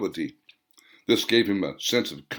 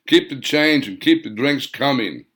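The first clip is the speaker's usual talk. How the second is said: barked; 4 semitones higher, 4 dB louder than usual. Acted. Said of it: "Hans barked".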